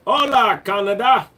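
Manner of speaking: high, loud shout-out; hollered greeting. Acted. Streamer greets viewers in Canada, high loud holler. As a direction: holler it high across a distance.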